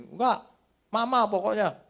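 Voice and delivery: put-on high, whining refusal of a little kid; whining child. Lost child pushing away the guard's candy, high whine. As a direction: pout it out like a child who only wants mama.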